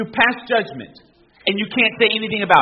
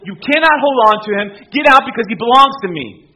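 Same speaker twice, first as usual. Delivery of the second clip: loud, forceful command; commanding rebuke; 6 dB louder than usual. Acted. Jesus casting a demon out of someone, commanding rebuke. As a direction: order it out with full authority. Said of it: "want Jesus to speak like that".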